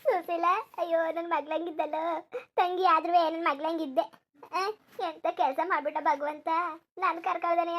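mournful lament. Acted. Lamenting the dead sister.

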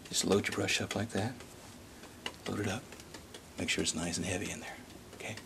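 soft soothing TV painter voice; calm, hushed painting host; gentle painting instructor. Acted. Bob Ross parody painting host.

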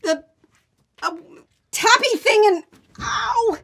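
high, loud calling from another room; calling from downstairs. Acted. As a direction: shout it up the stairs, flustered. Calling up from the basement.

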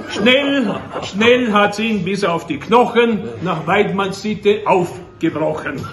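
emphatic verse reading with pauses; declaimed rhyming couplets; poem recitation. Acted. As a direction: recite it with relish, repeated words set apart.

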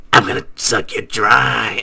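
low, throat-straining villain voice; attempted Cell voice. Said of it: "I can't do the voice".

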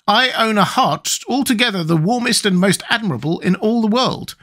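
high-pitched proud character; Tin Woodman's voice. A narrator's reading. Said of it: "said the Woodman".

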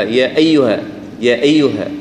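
يا أيها with the همزة eased away; خطأ: تسهيل همزة أيها; softened أيها. Shown as a demonstration. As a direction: slide past the hamza in أيها. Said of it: "لا هي يا أيها".

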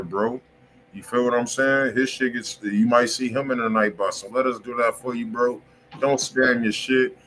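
ordinary talk

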